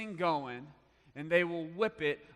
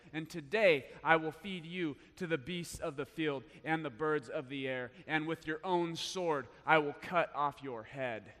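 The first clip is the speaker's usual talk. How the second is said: preaching. Acted. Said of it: "Guys, I'm preaching".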